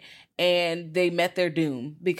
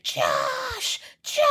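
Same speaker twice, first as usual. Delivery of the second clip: mock yell; 10 semitones lower than usual. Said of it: "Mama was screaming".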